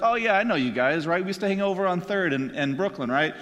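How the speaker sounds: put-on quick, casual touch of Brooklyn accent; lightly put-on New York accent, chummy and fast; Boston or New York accent. Jesus greeting guys he knows, light New York accent. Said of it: "throw out a Boston or New York accent".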